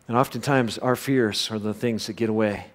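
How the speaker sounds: normal talking voice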